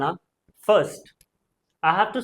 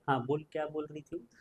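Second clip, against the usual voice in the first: grandmother; 10 dB quieter than usual. Retold or imitated. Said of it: "okay, type का".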